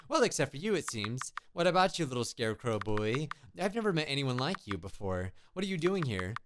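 a hint of a polite witch; lightly voiced witch. Witch greets the little scarecrow boy, lightly voiced, polite. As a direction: lightly act a friendly, musing witch.

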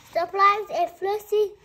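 spring the surprise on the listener; surprise reveal. Acted. Story reveal to child.

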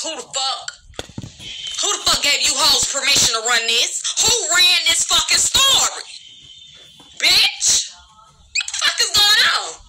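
high, loud outraged yelling; furious shout. Real, not acted. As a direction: blow up at them, voice climbing. Angry rant at gossip spreaders.

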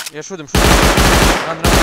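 shouting. Real, not acted. Firefight command.

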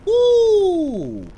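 high whooping cheer; excited whoop. Real, not acted. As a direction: let out a gleeful whoop. Cheering a big shotgun hit.

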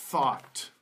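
"thought" said carefully with the th at the start; th sound demo. Shown as a demonstration. Teacher models first word for learners, "thought" with initial th. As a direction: model "thought" alone, crisp initial th, falling tone. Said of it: "with the th sound".

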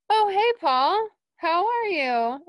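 high, loud, drawn-out hello; re-enacted bubbly hallway greeting; retold eager greeting. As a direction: call out a surprised, friendly hello. Retold surprise greeting of a singer.

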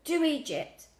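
high gasp with a falling end. A narrator's reading. Sick grandad telling Lily where to send it, gasping. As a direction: gasp it out as an instruction. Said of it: "Grandad gasped".

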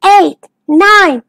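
high, measured count; slow counting. Acted. Dennis counts while his friends hide, slow and high. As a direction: count out slowly for hide and seek. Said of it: "Dennis counted slowly".

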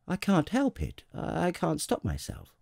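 put-on high, flustered child-prince voice; embarrassed little prince. A narrator's reading. Little prince excuses his yawn to the king, embarrassed. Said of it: "thoroughly embarrassed".

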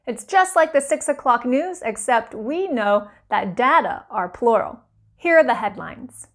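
important-sounding news anchor voice; parody news anchor. Acted. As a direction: read it like the six o'clock news. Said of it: "explained to you in voices that sound important".

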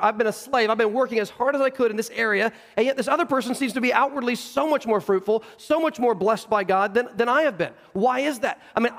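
acted resentment, pressing the comparison; aggrieved older brother. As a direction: protest the unfairness with mounting indignation. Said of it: "Sounds like the older brother".

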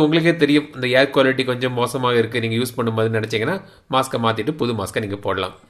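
muffled behind respirator mask; speaking masked, mouth covered; through a face mask. Real, not acted. Seen 2: Black valved pollution mask worn over mouth throughout; removed by 7.6.

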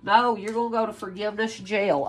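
a hint of playful sass with a laugh; mock scolding. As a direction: tease the cult as you turn them away. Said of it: "you'll be like".

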